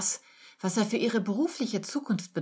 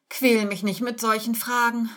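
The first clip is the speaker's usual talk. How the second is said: whiny, tearful; 5 semitones higher, 4 dB louder than usual. A narrator's reading. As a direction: plead in a lightly acted whimper. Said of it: "mit weinerlicher Stimme". (weinerlich, leicht jammernd)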